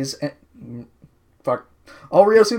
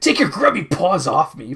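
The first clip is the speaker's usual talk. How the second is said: Pizzazz. Acted. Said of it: "Pizzazz tells the guard".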